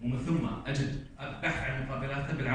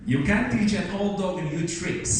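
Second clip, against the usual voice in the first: slow proverb read; 7 semitones higher, 4 dB louder, much slower than usual. Shown as a demonstration. Teacher quotes English proverb.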